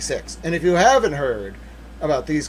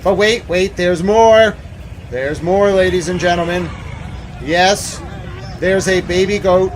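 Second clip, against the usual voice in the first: infomercial hype; 3 semitones higher, 6 dB louder than usual. Real, not acted. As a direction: play a TV salesman revealing the bonus. Infomercial-style reveal to chat.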